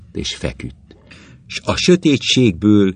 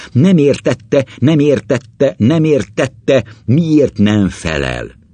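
higher, insistent repeated complaint; narrated exasperation, pitched up; agitated pleading; 7 semitones higher, 3 dB louder, slower than usual. A narrator's reading. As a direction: build in desperation, then draw out the final question. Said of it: "Ő mindig hangosabban beszélt, kiszáradó, elfulladó torokkal".

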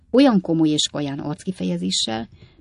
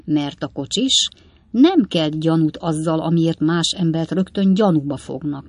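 lightly voiced father, loud and emphatic; a hint of a pontificating old man; opinionated old father; 7 dB louder than usual. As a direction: lay down your theory to your son. Old Weller expounds his theory.

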